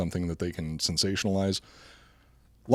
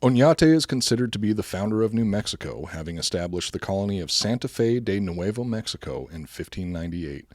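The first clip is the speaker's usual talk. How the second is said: Spanish accent. Shown as a demonstration. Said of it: "how good my Spanish accent is".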